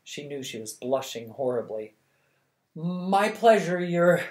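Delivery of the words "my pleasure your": muttered. A narrator's reading. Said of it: "she managed to mutter".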